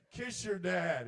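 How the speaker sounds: high, loud urging; nagging intrusive thought. Acted. Intrusive thoughts interrupt on the drive to football, loud nagging. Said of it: "my intrusive thoughts were like".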